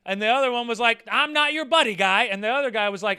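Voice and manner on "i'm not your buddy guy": louder, higher snarl of an angry driver; mock yelling driver. Two drivers trading insults, a hammed-up angry yell. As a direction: shout it back like road rage.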